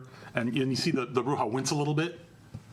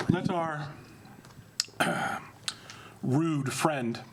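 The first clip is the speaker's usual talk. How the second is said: menacing vampire prince. Acted. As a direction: talk down to the upstart, unhurried. Prince addresses the court.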